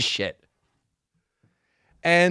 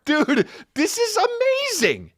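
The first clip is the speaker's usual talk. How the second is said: high, slow marvelling dude; high delighted imitation. Imitating Logan enjoying the press conference, high and slow. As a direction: stretch out amazing way up high. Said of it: "He's going".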